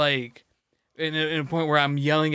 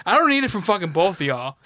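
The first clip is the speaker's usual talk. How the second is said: mock outrage; 2 semitones higher, 3 dB louder than usual. Turning on his friend for siding with dad, mock fury. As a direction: blow up at your friend in fun.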